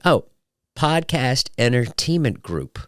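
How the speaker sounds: slowly working out the initials; drawn-out, dawning guess; slow realization. Retold or imitated. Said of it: "like that".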